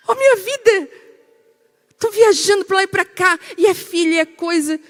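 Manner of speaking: high, loud harried outburst; mock exasperation. Busy wife answering husband's complaint, exasperated. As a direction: act out an overwhelmed wife protesting. Esposa atarefada reage ao marido.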